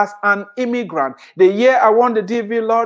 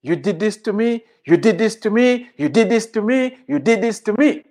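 complaining. Retold or imitated. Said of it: "all what they're talking about is".

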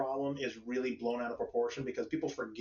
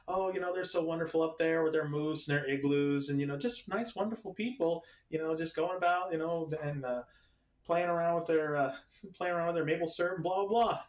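gushing American; 4 semitones higher than usual. Retold or imitated. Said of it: "Listen to an American talk about a Canadian".

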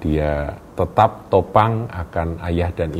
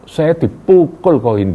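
slow, much higher and louder complaint; retelling being beaten; 10 semitones higher, 7 dB louder, slower than usual. Retold or imitated. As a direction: stretch it out like the blows still hurt. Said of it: "dia bilang gitu ya".

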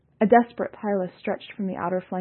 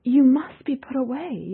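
higher, louder judgment; stern; 7 semitones higher, 5 dB louder than usual. A narrator's reading. Yalnis condemning Seon, stern and louder. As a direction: pronounce the sentence firmly. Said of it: "Yalnis said to Seon".

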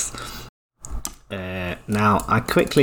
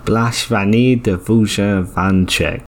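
Swedish chef voice. Shown as a demonstration. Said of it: "big Swedish chef vibes".

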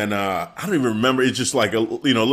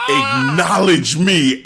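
slow, louder mock shout of the demand; imitating Roman, louder; 4 dB louder, slower than usual. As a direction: stretch it out and push it harder the second time. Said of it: "when he started saying that again".

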